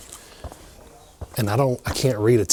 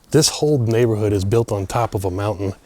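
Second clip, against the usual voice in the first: panting after climbing stairs; breathless from the climb; out of breath. Real, not acted. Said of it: "that's why I'm completely out of breath".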